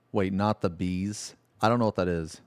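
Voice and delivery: usual speaking voice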